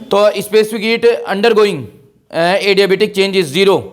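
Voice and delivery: very slow, stretched words; slow reading. Shown as a demonstration. Teacher slowly reads out the question and answer.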